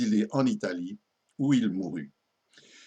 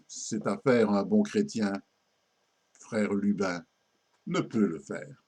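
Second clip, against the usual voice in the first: satirical ballad recitation. Acted. Récite une ballade satirique à refrain. (ballade satirique déclamée, refrain plus grave)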